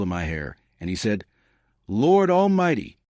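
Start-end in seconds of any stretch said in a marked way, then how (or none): 1.9-3.0 high, slow exclamation of amazement; astonished. A narrator's reading. Old lawyer recognising the grandchildren, astonished. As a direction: draw it out, higher, in mild astonishment.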